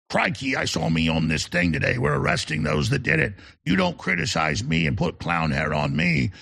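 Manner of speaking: a poor imitation of an Australian politician's accent; mock Australian accent. Host mocking the Australian premier in a bad Australian accent. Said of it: "I can't really do an Australian accent".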